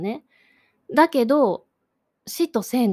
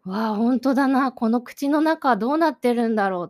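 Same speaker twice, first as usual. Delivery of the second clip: louder, wondering exclamation; amazed wonder; 3 semitones higher, 5 dB louder than usual. Retold or imitated. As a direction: think aloud in astonishment, voice lifted. Voicing amazement before the painting.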